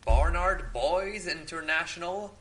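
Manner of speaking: careful, slightly hammed French accent. Shown as a demonstration. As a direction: give the winery its proper French sound. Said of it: "with my French accent".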